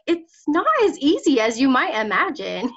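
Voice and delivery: laughing retort. Retold or imitated. Speaker retells her reply to critics, laughing. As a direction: answer them with a laugh. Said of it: "I'm like".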